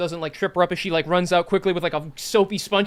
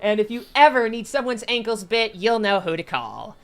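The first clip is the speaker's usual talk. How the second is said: pompous rat hero; 5 semitones higher, 6 dB louder than usual. Acted. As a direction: proclaim it like a self-important showman. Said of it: "He says with a little bloody face".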